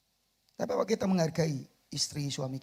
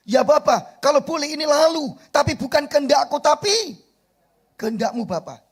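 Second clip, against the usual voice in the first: quoted prayer; 9 semitones higher, 9 dB louder than usual. Acted. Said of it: "Ingat doa Yesus".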